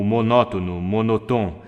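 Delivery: "monótono, monotom" on one note; "monótono, monotom" droned on a level pitch; monotone. Shown as a demonstration. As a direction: say "monótono, monotom" without any intonation. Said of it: "o mundo monotônico vem".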